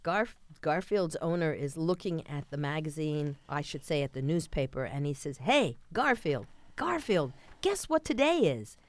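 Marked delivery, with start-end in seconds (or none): 5.4-8.8 rising, louder call to the cat; yelling. Retold or imitated. Owner yelling to Garfield across the room, mock excited shout. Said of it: "And he yells at Garfield".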